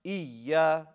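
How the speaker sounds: "إيا" with a stressed double y; nabr emphasis. Shown as a demonstration. Teacher shows there's two yas, emphatic nabr. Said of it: "You put emphasis on the ya".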